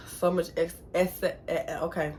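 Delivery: talking with braces tightened. Real, not acted. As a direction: sore mouth, fumbling over the word. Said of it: "it be hard for me to talk".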